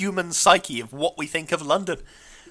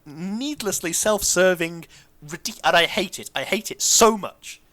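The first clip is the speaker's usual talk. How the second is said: indignant, pitched-up tirade; exasperated rant; 4 semitones higher than usual. Real, not acted. Host ranting about Cockney rhyming slang, exasperated. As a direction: rant about it, leaning on the key words. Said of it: "this is a miniature rant".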